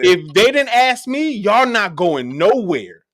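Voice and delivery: hammed-up protective sergeant; retold sergeant rant. Sergeant refusing to give up his soldiers, mock rant. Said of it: "He goes".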